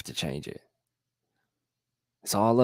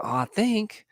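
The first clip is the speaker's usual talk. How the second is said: much higher, wavering Oh I think; unsure I think; 12 semitones higher than usual. Shown as a demonstration. A vlogger mocking the doubter's weak I think, voice jumping high. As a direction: sound doubtful, pitch leaping up on think.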